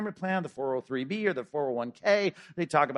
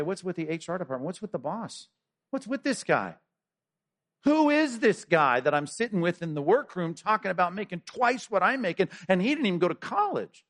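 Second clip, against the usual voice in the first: mock indignant rant building louder and higher; complaining employee; 4 semitones higher, 3 dB louder than usual. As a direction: vent about the unfair boss. Employee grumbling about pay.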